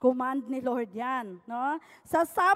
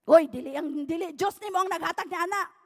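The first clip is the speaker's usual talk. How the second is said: annoyed objection; faster than usual. Retold or imitated. Atheist objects to her praise.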